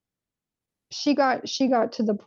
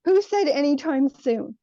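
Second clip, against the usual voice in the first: higher-pitched imitated upset demand; retold freak-out; 6 semitones higher than usual. Mother challenging her child's prediction, mildly acted freak-out. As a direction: play a mother freaking out, without yelling. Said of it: "then she freaked out".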